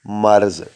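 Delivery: "مرض" said slowly, a clean short vowel then رض; correct pronunciation. Shown as a demonstration. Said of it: "کس لفظ کو کس طرح سے ادا کرنا ہے". ("مرض" کا آہستہ، صاف تلفظ)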